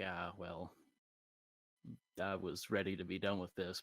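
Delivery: weary mutter. Retold or imitated. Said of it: "I was gonna be like".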